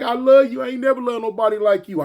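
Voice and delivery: lightly voiced girlfriend swooning; girlfriend's voice. Girlfriend voiced in retold fight.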